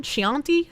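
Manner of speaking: "Chianti" tried as shee-AHN-tee, questioning; unsure pronunciation. Shown as a demonstration. Streamer puzzling over a wine name, "Chianti" guessed as shee-ahn-tee. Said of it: "I don't know how to pronounce that".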